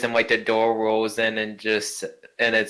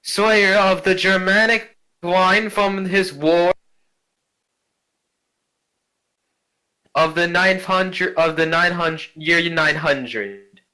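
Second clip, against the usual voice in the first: high, slow proud declaration; grand noble lady; 7 semitones higher, slower than usual. Acted. Ghost grandmother proudly announcing her line to the party, high and slow. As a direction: announce your lineage grandly.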